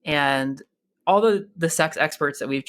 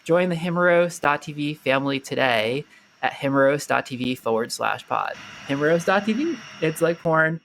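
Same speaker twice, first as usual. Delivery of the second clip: polished, scripted sponsor read; podcast ad read. Acted. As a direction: read it like a rehearsed promo. Host reads sponsor ad.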